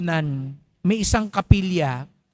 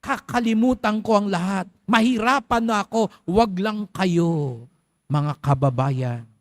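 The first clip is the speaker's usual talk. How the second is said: mock politician pledge. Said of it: "Mga ganyan yung mga speech".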